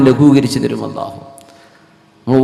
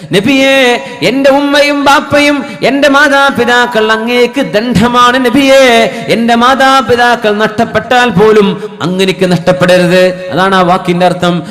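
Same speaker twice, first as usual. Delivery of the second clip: acted pleading in a preaching voice; impassioned appeal; 6 semitones higher than usual. Bilal pleading with the weeping Prophet, impassioned appeal. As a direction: plead in waves, rising on each address.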